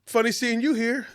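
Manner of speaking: high-pitched impression of an acquaintance; retold high-voiced small talk; Flojo's greeting. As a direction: imitate his hello, pitched well up. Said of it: "He was like".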